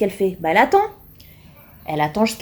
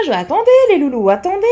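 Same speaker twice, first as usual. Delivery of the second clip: louder, higher wait; urgent call; 8 semitones higher, 5 dB louder, faster than usual. Real, not acted. Vlogger stopping her followers, louder and higher. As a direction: stop them short, louder. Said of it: "interrupting viewers".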